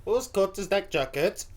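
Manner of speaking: imitation Welsh, rising question; Welsh accent attempt. Viewer copying the comedian, in an attempted Welsh accent. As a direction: have a go at confused Welsh. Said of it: "A good Welsh accent".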